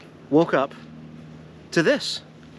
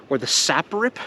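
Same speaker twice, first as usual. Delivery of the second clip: "sap rip" with a light rise on "rip"; "sap rip" said as a new brand name; coined word sap rip. Real, not acted. Showing off his new word sap rip, with a rise. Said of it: "Just invented the word".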